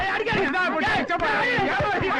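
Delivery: giggling complaint; laughing protest. Acted. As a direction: laugh while begging them to stop. Comic scuffle, being hit.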